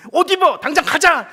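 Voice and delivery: loud, high, bursting with eagerness; excited shouting husband. Retold or imitated. Old man shouts at wife to get up. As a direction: yell it like he's just won.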